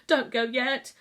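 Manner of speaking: high, loud urgent plea; urging. A narrator's reading. Sick boy urging his guardian not to leave, high urgent plea. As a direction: beg him to stay, voice rising. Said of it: "he urged".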